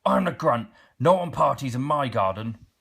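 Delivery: loud, bossy troll shout; troll bellowing at a party guest. Acted. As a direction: bellow to scare off the visitor. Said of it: "he bellowed".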